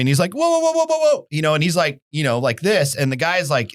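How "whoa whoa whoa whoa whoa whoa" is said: rapid string of high-pitched whoas; mock startled backing-off; alarmed pleading. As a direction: imitate someone trying to halt a threat. Friend facing a pointed gun.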